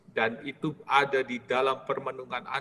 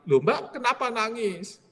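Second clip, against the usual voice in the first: much higher, sympathetic question; concerned frater; 9 semitones higher than usual. Retold or imitated. Another frater asks the crying maid, high and concerned. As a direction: ask her kindly why she cries.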